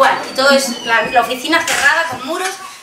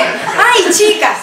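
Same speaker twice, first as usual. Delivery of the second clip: loud, high, laughing cry; acted excited exclamation; 7 semitones higher, 8 dB louder, much slower than usual. Jumping women replying to the happy girl, acted excitement. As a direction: imitate the women gushing.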